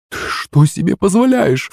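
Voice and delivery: high, slow scolding outburst; indignant cry. A narrator's reading. Mother scolds her daughter, high and slow. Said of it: "вскрикнула Юлина мама".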